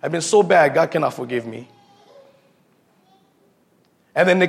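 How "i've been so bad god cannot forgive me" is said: low, lightly voiced ashamed guy; a hint of a guilty man's lament; mock remorse. Ashamed man tells himself God cannot forgive him, low mock remorse. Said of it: "the guys that go like this".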